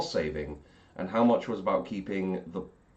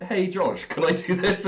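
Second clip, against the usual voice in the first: high pleading voice; 11 semitones higher, 4 dB louder than usual. Retold or imitated. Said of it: "probably should have been me like".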